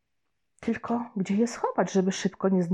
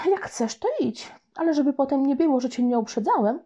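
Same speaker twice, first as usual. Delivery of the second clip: ominous warning; 6 semitones higher than usual. Acted. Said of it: "rzuciłem złowieszczo".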